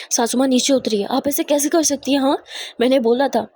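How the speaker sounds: mildly heated, accusing questions; indignant confrontation. Acted. Daughter-in-law confronts her mother-in-law over missing Muskan, indignant.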